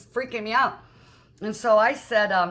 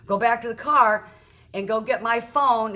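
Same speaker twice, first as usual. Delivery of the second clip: louder, higher imitated command; retold yell; 3 semitones higher, 5 dB louder than usual. Man sending his wife for the phone, mock yell. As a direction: call out an order as in a retelling. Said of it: "he yells back at her".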